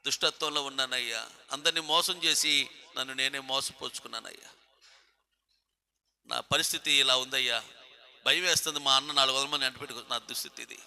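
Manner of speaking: low, subdued confession to God; retold humble confession. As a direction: confess it quietly, as the penitent in the story. Acts out Jacob's humble confession.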